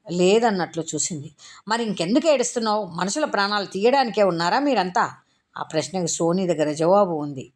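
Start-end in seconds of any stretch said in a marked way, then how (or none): 1.7-5.1 exasperated scolding. Acted. Exasperated warden scolds crying girl.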